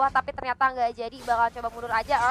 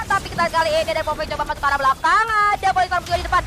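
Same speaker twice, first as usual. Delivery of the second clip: excited play-by-play. Real, not acted. Fight breaks out, fast calls.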